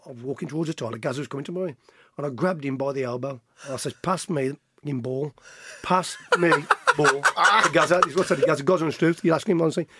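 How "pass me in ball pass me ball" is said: slow emphatic demand. Retold or imitated. Spelling out demand to teammate.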